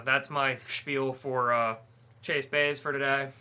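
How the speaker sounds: winded, catching breath between words. Real, not acted. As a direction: talk while short of breath. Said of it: "Let me catch my breath here".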